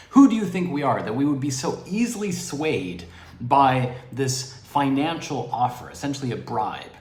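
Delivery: mildly indignant townspeople, retold; mock indignation. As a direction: protest as if mildly affronted on the town's behalf. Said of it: "with indignity".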